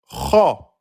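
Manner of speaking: Kha hollow and deep; emphatic letter. Shown as a demonstration. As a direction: swell the back of the mouth on Kha. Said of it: "Lettre emphatique".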